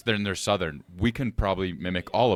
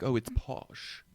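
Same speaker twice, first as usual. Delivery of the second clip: wrong way, soft; 4 semitones higher, 6 dB quieter, slower than usual. Shown as a demonstration. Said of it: "they don't say it like that".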